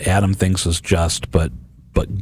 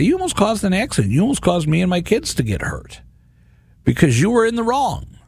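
mock arguing; 11 semitones higher than usual. Father imagining confronting a jaywalker, mock arguing. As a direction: have it out with him, pitch raised in protest. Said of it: "argue with this guy and say".

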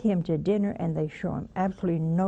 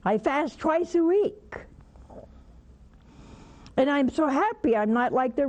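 smug Pharisee; 5 semitones higher than usual. Acted. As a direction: pray like a proud Pharisee showing off. Pharisee boasting in prayer.

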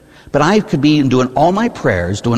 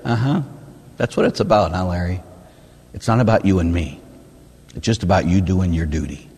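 dry voice of God; 4 semitones lower, 3 dB quieter than usual. Retold or imitated. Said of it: "And he's like".

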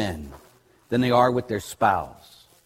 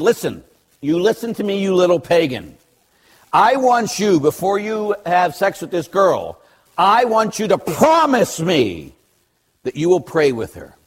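stern demand; 3 semitones higher than usual. Retold or imitated. Priest making groom promise, imitated stern insistence. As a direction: lay down the condition emphatically, pitched up.

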